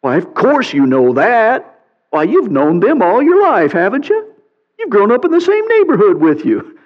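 a touch of sarcasm, voicing God; sarcastic. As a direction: tease Job with fake praise. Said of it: "Sarcasm, sarcasm".

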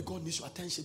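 said to neighbor. Shown as a demonstration. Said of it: "Tell somebody".

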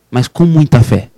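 "com muita fé" slowed right down, each word leaned on; slow emphatic stress on faith. Shown as a demonstration. To his friend, stressing how he prayed: "com muita fé" slow and weighty. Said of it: "Mas eu falei com muita fé".

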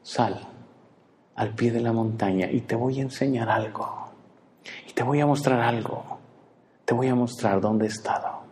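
soft, gentle call to Elijah; tender invitation. Acted. God embracing Elijah and inviting him out, soft. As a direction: call him out lovingly, quietly. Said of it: "abrazándonos y diciendo".

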